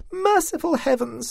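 high, drawn-out frightened cry; shrieking alarm at the beast; frightened scream. A narrator's reading. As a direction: scream it out in shock, high and slow. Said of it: "screamed Constance".

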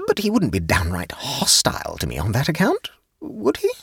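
mildly anxious woman seeking reassurance. A narrator's reading. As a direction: ask anxiously, rising high on "would he". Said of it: "Jane asked anxiously".

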